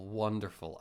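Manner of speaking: flat, deadpan sarcasm; monotone voice, dripping sarcasm; sarcastic monotone. Real, not acted. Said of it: "every drop of sarcasm capable in my monotone voice".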